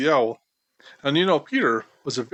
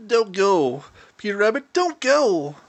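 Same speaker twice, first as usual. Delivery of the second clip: higher, pleading plea; begging; 4 semitones higher than usual. A narrator's reading. Mouse begs Peter Rabbit to stay, pleading. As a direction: beg him not to leave. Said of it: "begged Danny Meadow Mouse".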